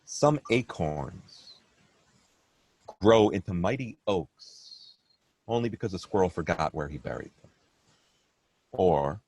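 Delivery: measured verse reading with long pauses; poem recitation. Acted. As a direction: recite your poem, pausing between phrases. Recites his own poem.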